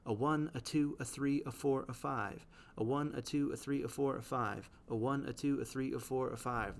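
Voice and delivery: "a one, a two, a three, a four, a five" with weak "a" and stressed numbers; iambic counting. Shown as a demonstration. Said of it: "what these lines should sound like".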